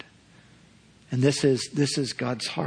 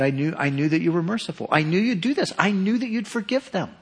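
higher, complaining to God; lightly voiced resentful prophet; sulking Jonah; 4 semitones higher, faster than usual. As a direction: whine that you knew it all along. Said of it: "He said to God".

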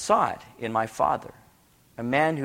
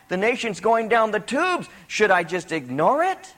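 raised, insistent rhetorical questions; impassioned preaching; 7 semitones higher, 5 dB louder than usual. Acted. Preacher voicing the Lord over a crumbling nation, impassioned. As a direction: press each question on the congregation.

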